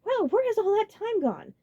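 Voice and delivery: high, slow, amused; cheerful surprise; light amusement; chuckling Roy. A narrator's reading. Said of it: "He chuckled".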